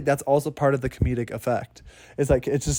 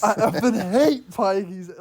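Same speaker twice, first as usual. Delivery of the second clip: mock gangster line; 6 semitones higher, 3 dB louder, slower than usual. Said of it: "everyone ... kept mentioning".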